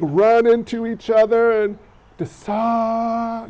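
stretched out like slow-motion film; mock slow-mo replay voice; slow-motion imitation. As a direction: drag the words into slow motion. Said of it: "the slow-mo".

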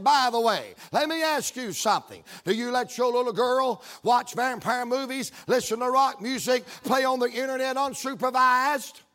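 forceful preacher's cross-examination; emboldened, punched-out challenge. Retold or imitated. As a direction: press the question hard and boldly. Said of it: "then I got even more bold".

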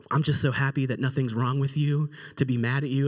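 low-pitched, gentle relieved mother; lightly voiced sweet mom; soft-spoken mom. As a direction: imitate a mild mother letting it go. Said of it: "who is the most soft-spoken".

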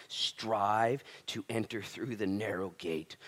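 slow, deliberate reading of the verse; slow scripture reading. Acted. Preacher reading Jesus' warning to the crowd, slow and deliberate. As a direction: weigh each word of the verse.

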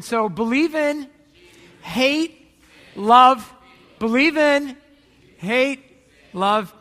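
loud, slow chant with pauses; call and response. Shown as a demonstration. Pastor drilling the congregation in a loud chant. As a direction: call each word out to the crowd. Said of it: "so we'll try it again".

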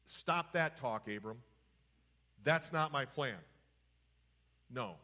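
slow, measured refusal with long pauses; unhurried, final correction, lightly voiced as God; divine no. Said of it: "almost like a divine no".

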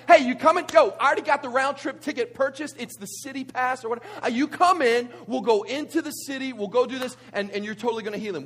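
high, loud, urging street-corner pitch; eager messengers. Acted. Messengers urging Jesus to come along, eager and loud. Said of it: "and they're saying".

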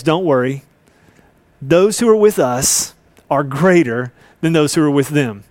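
a hint of a calm prophet settling his servant; cool and calm. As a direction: Elisha calmly reassuring his frightened servant. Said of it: "cool, calm, collected".

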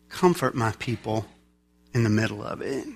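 low, soft, gentle reassurance; tender divine comfort. Acted. God comforting a sinful world, tender. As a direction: comfort them softly and low. God speaking from a loving heart.

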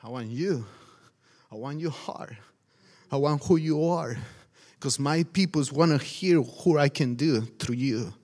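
a lightly voiced gentle God; God's voice. Pastor voicing God calling him, low and tender. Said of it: "I say".

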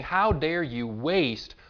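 acted scolding, slow and emphatic at first; mock indignant telling-off; mild scolding. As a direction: scold her with measured indignation. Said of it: "they're scolding her".

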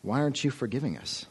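complaining quote. Retold or imitated. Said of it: "They're complaining and saying".

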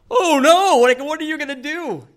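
high, loud cry of alarm; hammed-up wail of dismay; mock panic. Groom hears another wedding has a permit, mock panic.

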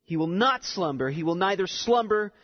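"not" and each "slumber" given weight; stress on repeated word. Shown as a demonstration. Preacher pointing out a repeated word, emphatic "slumber". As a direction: lean on "slumber" each time it returns. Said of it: "notice the repetition of the word slumber".

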